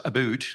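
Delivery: about said as "a boot"; "a boot" with a Canadian oo vowel. Shown as a demonstration. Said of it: "I'm gonna put in the real Canadian accent there".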